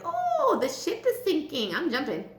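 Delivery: hammed-up dismay starting very high; mock alarm. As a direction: play a comic abandon-ship moment. Acted quote, jumping ship.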